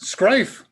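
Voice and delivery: Scrife drawn out slow, like the synth voice said it; mimicking the robot's Scrife. Host echoing the synthesizer's Scrife, slowed down. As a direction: copy the machine saying Scrife for schrijf. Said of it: "Did it pronounce, it".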